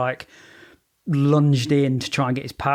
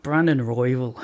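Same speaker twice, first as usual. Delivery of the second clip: Irish accent; 3 dB louder than usual. Shown as a demonstration. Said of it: "in deep Irish accent".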